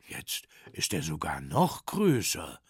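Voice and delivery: low bear voice; low, placid bear reply; unruffled bear. Acted. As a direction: answer calmly as a deep bear. Bear answers the angry tinker.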